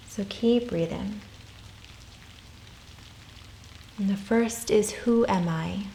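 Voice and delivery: calm, unhurried meditation voice with long pauses; guided meditation. Real, not acted. Yoga teacher guiding listeners through soul questions, calm meditation voice. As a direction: gently guide them inward, leaving space after each phrase.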